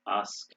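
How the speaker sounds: "ask" first as ahsk, then with cat vowel; "ask" said British, then American; British then American pronunciation. Shown as a demonstration. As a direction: contrast back and front a in "ask". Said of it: "they say bath in Britain".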